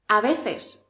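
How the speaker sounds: veces with a light S; soft S. Shown as a demonstration. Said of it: "la S es muy suave". (veces con ese suave)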